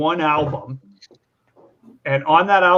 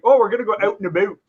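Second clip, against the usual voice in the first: quick, higher Canadian caricature; mock Canadian; 4 semitones higher, faster than usual. Canadian teasing how people imitate them, mock Canadian accent. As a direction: exaggerate the Canadian vowels, briskly. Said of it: "when Canadians say this".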